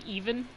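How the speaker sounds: "Even" tried as EE-vən, questioning; unsure pronunciation. Shown as a demonstration. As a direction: try out "Even" with a long ee. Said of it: "don't really know how to pronounce it".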